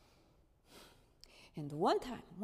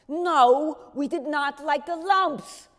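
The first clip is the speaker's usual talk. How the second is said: higher, louder recited answer; dutiful child answer; 5 semitones higher, 12 dB louder, slower than usual. Retold or imitated. Miep answering Otto like a scolded pupil, higher and louder.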